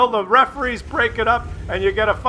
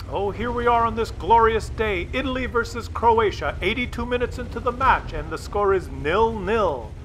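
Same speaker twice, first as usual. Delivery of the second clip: hushed play-by-play of a dull match; mock commentator. Mocking a soccer broadcast, droll commentator voice. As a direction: call it like a bored TV commentator.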